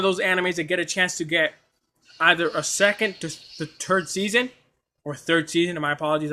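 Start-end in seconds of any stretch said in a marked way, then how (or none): 2.2-5.8 tripping over the words; stumbling, repeating words; stuttering. Real, not acted. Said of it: "I'm stuttering".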